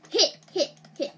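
loud, high frantic shouts; frantic yelling. Real, not acted. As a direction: yell each hit in a panic. Frantic attack in game.

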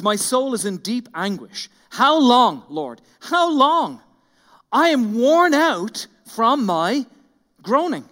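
loud, slow cry of anguish, pleading "How long"; anguished lament. Acted. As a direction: read it like a man worn out from groaning. Reading a psalm of anguish.

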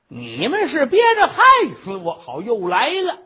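loud, high-pitched accusation; hammed-up aggrieved outburst; accusing old woman. Old patient accusing her family after the medicine, aggrieved.

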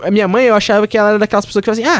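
ordinary delivery

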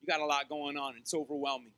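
usual speaking voice

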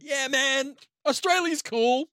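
high, bored brush-off voice; mock dismissive. Brushing off the friendly Swede, high and dismissive.

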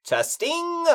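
high, loud testing calls; loud mic check. Acted. Man testing his mic before a show, loud. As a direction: project each word into the microphone. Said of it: "You're being a little loud".

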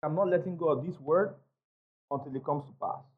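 low murmured vow; hushed vow of determination; quiet determination. Shown as a demonstration. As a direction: say it softly, as a vow to yourself. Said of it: "You know what I said?".

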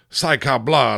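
a hammed-up cry of fright; terrified scream. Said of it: "the captain screams in terrified French".

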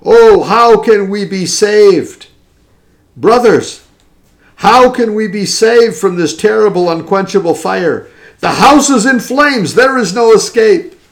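tearful preaching. Retold or imitated. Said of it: "He said with tears in his trembling voice".

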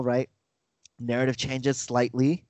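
usual speaking voice

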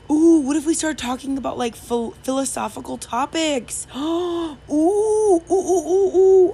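high, loud, squealing ooh-ing; rising excited squeals of delight; excited gushing. Acted. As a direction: gush like a kid with a new toy. Gushing over a fun idea.

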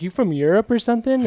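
imitating confused outsiders. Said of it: "They're like".

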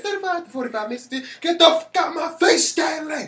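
high, loud, fast hammed-up rant; cranky old man rant. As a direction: rattle it off in a high cranky yell. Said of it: "he said".

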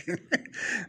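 brief breathy chuckle; small laugh after making a point; short laugh. Real, not acted. Podcast teacher amused at his own point, short chuckle. Remark on finding out very clearly.

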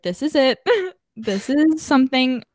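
a laugh breaking into the words; laughing through the quote. Retold or imitated. Recalling a big moment to a friend, laughing. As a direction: let the laugh spill over the realization.

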